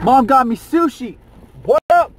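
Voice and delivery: high, loud delight; excited. Real, not acted. Son thrilled his mom brought him sushi, loud and high.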